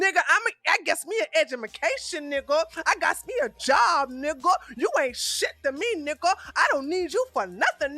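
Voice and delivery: hammed-up defiant woman; mock attitude, tossing off each nigga; 1 mocking imitation. Continues mimicking the woman.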